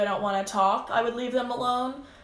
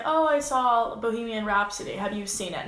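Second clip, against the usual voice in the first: interested, chatty reply that invites more talk; engaged answer. Shown as a demonstration. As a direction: sound keen to chat about the movie. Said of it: "Now, if I was just like".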